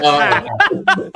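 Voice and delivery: deflated oh. Retold or imitated. Deflated reaction, laughing.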